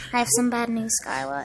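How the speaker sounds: quiet, grave mock bad-news voice; imitating deadpan mother. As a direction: break it softly, giving nothing away. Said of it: "she had no facial expression".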